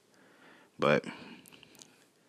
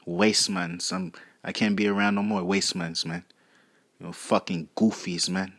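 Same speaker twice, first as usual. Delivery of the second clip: put-on London roadman accent. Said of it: "switch up the accents".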